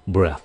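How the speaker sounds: "Breath" with the tongue blocking the air behind the teeth; th at the end of breath. Shown as a demonstration. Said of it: "Cái lưỡi chặn cái hơi trước răng". ("Breath" lưỡi chặn hơi trước răng)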